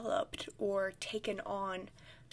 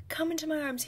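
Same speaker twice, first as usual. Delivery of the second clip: coaxing whisper; 7 semitones higher, faster than usual. Retold or imitated. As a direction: whisper sweetly to a pet. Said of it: "I was like".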